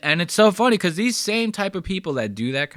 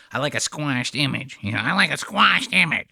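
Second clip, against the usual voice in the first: mocking whine. Mimics the complainer.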